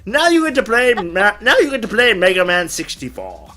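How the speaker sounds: drawn-out, grand dad refusal; mock pompous father. Father telling ten-year-old what he gets, pompous. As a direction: play a self-satisfied dad making a decree. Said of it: "I'll say".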